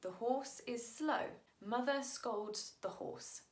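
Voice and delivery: measured, spaced-out read-aloud; reading a translation. Shown as a demonstration. Teacher reading the English translation first, deliberate read-aloud. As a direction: read it slowly, phrase by phrase. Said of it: "read you the English translation first".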